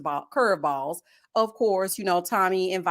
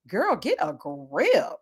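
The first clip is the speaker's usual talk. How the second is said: mock stern; 4 semitones lower, much slower than usual. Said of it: "I was like".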